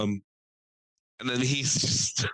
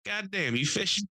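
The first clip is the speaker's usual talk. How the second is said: raised old man imitation; gruff old fisherman, pitched up; 8 semitones higher than usual. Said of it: "he's just like".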